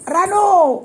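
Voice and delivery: calling out loud through a laugh; high laughing shout of the name. Real, not acted.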